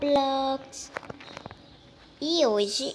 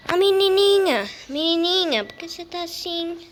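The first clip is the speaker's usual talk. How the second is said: concerned high call; 5 semitones higher, 6 dB louder than usual. Real, not acted. Calls out to a scared character.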